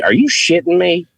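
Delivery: high-pitched mock astonishment; imitated disbelief. Guest mimicking fans shocked by his accent, high incredulous voice. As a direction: imitate someone who can't believe it. Acts out fans' disbelief at him.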